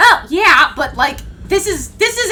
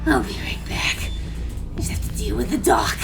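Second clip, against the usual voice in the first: breathy monster growl; low raspy monster voice; Reese monster voice; 3 semitones lower than usual. Acted. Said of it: "do Reese monster voice".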